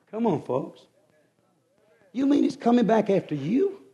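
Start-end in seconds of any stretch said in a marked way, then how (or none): 2.1-3.8 softer, higher incredulous question; acted sceptical sister; mock disbelief. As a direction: doubt her lightly, lifting sharply at the end. Sisters doubt Cinderella again.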